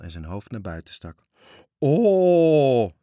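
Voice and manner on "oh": high, loud gasp of wonder; a frightened boy amazed at the gold; child's excited cry. Acted. Toontje peeking out at the gold, excited cry. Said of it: "riep hij".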